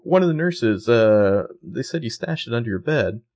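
mildly acted innocent excuse; scared, innocent girl. Arya excuses herself to Rhonda, lightly innocent and scared. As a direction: lightly imitate a nervous girl justifying herself. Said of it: "high and innocent when she's scared".

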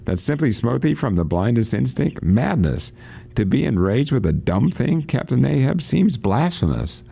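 high, urgent protest; crying out. A narrator's reading. Radio reader voicing Starbuck protesting to Ahab, high and urgent. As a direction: plead high and rising, aghast. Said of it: "cried Starbuck".

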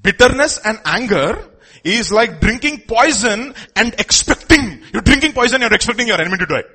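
preacher pounding the point; fervent preaching. Real, not acted. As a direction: drive the saying home to the crowd. Preacher hammers the quote.

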